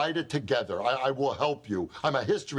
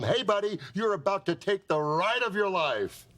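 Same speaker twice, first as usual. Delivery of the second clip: tough guy voice; 6 semitones higher than usual. Retold or imitated. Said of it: "tell him".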